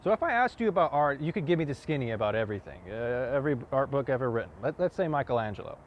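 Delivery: impassioned challenge, punching key phrases; forceful monologue. Acted. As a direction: push each point home with rising pitch and force. Same monologue, second take pushed harder.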